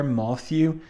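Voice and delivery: "moth, you" for Matthew, first syllable like moth; "moth, you" said as two parts, moth then you; odd accented pronunciation. Shown as a demonstration. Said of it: "what is Miller going for there".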